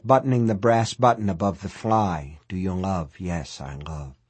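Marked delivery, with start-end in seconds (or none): 2.5-4.2 low, very soft, sinking away; entranced refrain. A narrator's reading. Stranded man slipping into the refrain, entranced and hushed. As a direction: murmur question and answer as if in a trance.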